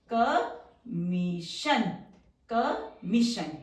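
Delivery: कमोशन stretched very slow and low; drawn-out word. Shown as a demonstration. Teacher slowly sounding कमोशन while drawing the strokes. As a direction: drag कमोशन out syllable by syllable.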